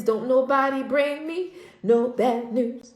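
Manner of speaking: slow, emphatic character line; bad witch from The Wiz. Woman quoting a musical to refuse bad news, defiant witch. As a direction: draw out each word defiantly. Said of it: "bad witch from The Wiz".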